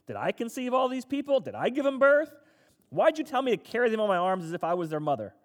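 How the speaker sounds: frustrated complaint. Retold or imitated. Moses protests to God over the grumbling people, loud and frustrated. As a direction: play Moses fed up and heated, pushing back at God. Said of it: "Moses is pretty frustrated".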